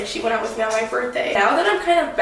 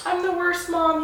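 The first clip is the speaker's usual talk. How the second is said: retold despair; 6 semitones higher, 3 dB quieter than usual. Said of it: "found myself crying on the floor".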